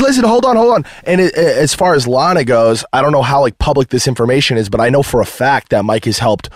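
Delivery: ordinary talk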